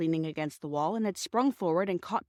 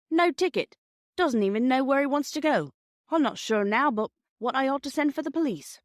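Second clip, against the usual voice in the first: exasperated station master; 7 semitones higher, 4 dB louder than usual. Acted. Gruff station master grumbles.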